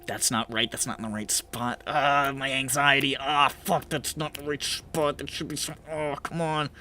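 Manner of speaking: hushed, fretful self-talk, acted; soft mock-OCD fussing; anxious compulsion. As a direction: fret under your breath, stuck on it. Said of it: "tick-like compulsion to be like".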